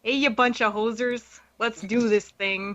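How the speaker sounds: put-on light hammy Canadian accent, slow at the end. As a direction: play up a Canadian accent for laughs. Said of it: "I could do my best Canadian accent for you all".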